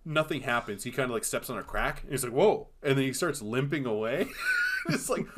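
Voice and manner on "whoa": sudden higher, louder "whoa" as if stumbling; mock startled whoa. Podcaster acting out a stumble, mock startled. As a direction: play a quick startled yelp.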